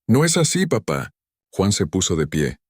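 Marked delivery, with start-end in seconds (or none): 0.1-1.1 raising his voice. Acted. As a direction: push back, voice raised in protest. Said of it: "alzando la voz por primera vez".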